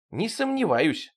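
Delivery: slow, high, acid sarcasm; king sneers sarcastically at the sergeant; venomous. A narrator's reading. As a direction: drip poison on each word. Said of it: "ядовито сказал король".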